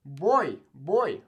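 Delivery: put-on boy said with an ee glide at the end. Shown as a demonstration. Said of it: "it kinda has this E sound".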